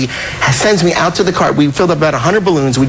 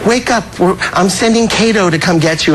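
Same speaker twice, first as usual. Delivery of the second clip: imitating a famous singer; 3 semitones higher than usual. Retold or imitated. Boss waking his guest over the intercom, light imitation. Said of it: "He goes".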